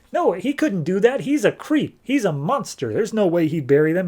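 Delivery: high-pitched, insistent denial; mock incredulous protest. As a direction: play-act disbelief, pitched well up. Acted disbelief about the villain.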